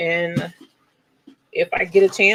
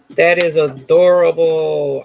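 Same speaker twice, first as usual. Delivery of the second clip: adorable; 10 dB louder, slower than usual. Real, not acted. Admiring the finished scarf.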